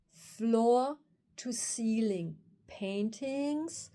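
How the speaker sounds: very slow, drawn-out wonder; awestruck. Retold or imitated. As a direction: stretch each word out in amazement. Reliving awe at the paintings.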